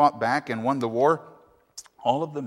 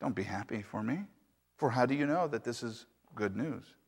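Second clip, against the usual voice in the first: put-on softer, steady old man's reply; calm; 5 dB quieter than usual. Old man calmly answers his congratulating neighbors. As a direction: gently wave off their praise. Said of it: "he calmly said".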